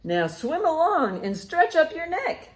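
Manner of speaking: ordinary talk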